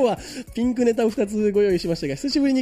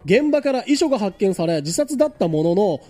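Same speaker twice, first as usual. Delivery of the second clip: radio presenter reading the news. Acted. Radio host reading out a harbor death story, news read. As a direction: deliver it as a measured news item.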